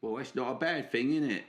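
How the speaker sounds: cheeky put-on British accent; Alfie, British accent. Alfie greets Romando, put-on British accent. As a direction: play a matey Brit, drawing out names. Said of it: "put me British accent on".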